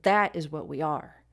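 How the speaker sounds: "That" hit first, then easing off; stress on THAT. Shown as a demonstration. Teacher settling on natural speech, stress on "That". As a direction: punch "That", let the rest drop. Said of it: "I'd probably just say".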